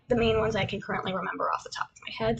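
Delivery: quick whispered aside; fast whisper. Real, not acted. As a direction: rush it under your breath.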